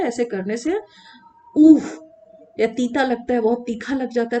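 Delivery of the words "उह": loud demonstrated "uh"; short acted gasp of pain; cry of hurt. Shown as a demonstration. Teacher acting out being hurt, cry of hurt. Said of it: "चोट लगते समय".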